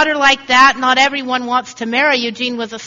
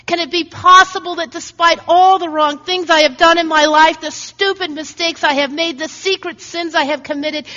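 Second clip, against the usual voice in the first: pleading sinner; 4 semitones higher than usual. Pretend.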